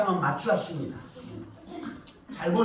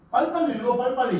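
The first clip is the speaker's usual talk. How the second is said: "빨리빨리" pushed higher and quicker to rush them; urging hurry; 5 semitones higher, faster than usual. Real, not acted. Urging slow readers.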